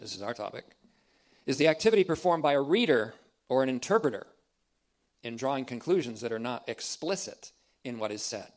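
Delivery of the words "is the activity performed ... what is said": loud, emphatic reading of the quote; first time through, hit it loud. Shown as a demonstration. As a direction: read it out forcefully, word by word. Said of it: "I'll say that again".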